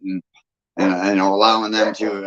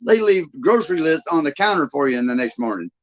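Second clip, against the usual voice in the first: amazed exclamation; 8 semitones higher than usual. Retold or imitated. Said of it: "I was like".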